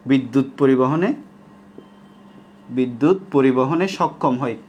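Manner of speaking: drawn-out chunks with long pauses, repeated for note-taking; slow dictation. Shown as a demonstration. Teacher gives students the definition to copy, slow dictation. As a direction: dictate slowly, piece by piece. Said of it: "আমি একদম আস্তে আস্তে বলতেছি".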